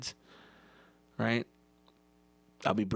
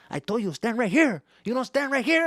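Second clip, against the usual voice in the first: higher, louder scolding; angry dad; 10 semitones higher, 6 dB louder than usual. Retold or imitated. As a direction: lose patience with the kid.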